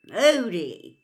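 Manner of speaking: loud, thrilled name; excited. Acted. Twin excitedly naming Moody.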